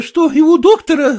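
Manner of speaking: usual speaking voice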